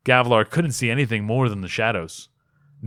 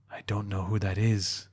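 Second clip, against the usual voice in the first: barely intelligible; 3 semitones lower, 8 dB quieter than usual. A narrator's reading. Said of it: "the words barely intelligible".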